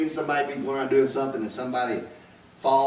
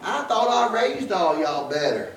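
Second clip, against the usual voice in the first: much higher, stern grandmother voice; scolding grandmother; 9 semitones higher than usual. Retold or imitated. Grandmother scolding the joking family, much higher and stern. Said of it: "my grandmother said".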